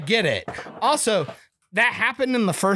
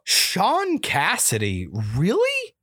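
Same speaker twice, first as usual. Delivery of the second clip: surprised; slower than usual. Real, not acted. Surprised at actor name.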